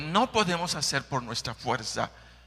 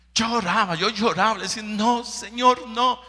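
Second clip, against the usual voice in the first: mock crying plea; 9 semitones higher, 4 dB louder than usual. Retells crying in prayer.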